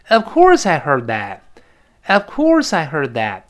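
"Of course" slow, with a strong fall; stress on OF COURSE. Shown as a demonstration. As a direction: draw out "course" emphatically. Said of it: "哎，是这么读的". (“Of course”重读，慢速示范)

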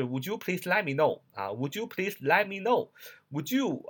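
"Would you" run together as "wu-joo"; fast linked reading. Shown as a demonstration. Teacher shows students how it sounds read quickly, linked speech. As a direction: link it up, "let me" slurred into "lemme". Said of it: "其实读快了，正常应该是".

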